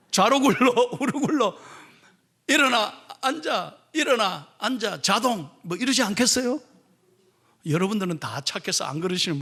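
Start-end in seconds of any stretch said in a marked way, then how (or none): 0.1-5.5 drill sergeant commands. Pretend. Pastor imagines drilling the disciples, mock marine drill commands. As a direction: play a marine drill instructor drilling recruits. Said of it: "포항 해병대식으로 훈련시킨다".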